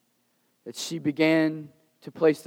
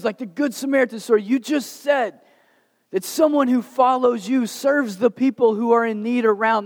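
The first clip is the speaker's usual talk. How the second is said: Martha's eager invitation; 6 semitones higher than usual. Retold or imitated. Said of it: "So Martha says".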